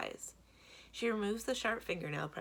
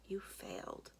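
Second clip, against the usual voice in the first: quiet echo; 2 semitones higher, 5 dB quieter, slower than usual. Acted. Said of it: "Those two words sting".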